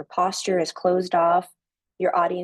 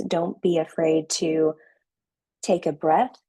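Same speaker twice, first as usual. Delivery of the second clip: slow, with a long pause before take a breath. Shown as a demonstration. Coach showing the class how to slow down, slow with a pause. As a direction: drag it out, then pause and breathe. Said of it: "You need to slow down".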